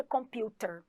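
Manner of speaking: computer said the British way, t crisp and r dropped; British pronunciation. Shown as a demonstration. Teacher showing students the British way, British accent. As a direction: give computer a British ring. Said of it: "Na pronúncia britânica".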